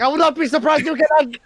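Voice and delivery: high, loud, laughing indignant yell; laughing mage hand. Acted. Floating hand yelling get out through laughter. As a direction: shout it while cracking up. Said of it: "The Mage is like".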